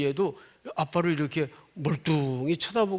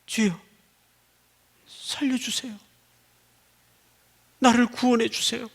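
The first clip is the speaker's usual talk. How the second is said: pleading Peter; 6 semitones higher, 3 dB quieter than usual. Retold or imitated. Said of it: "자기도 모르게".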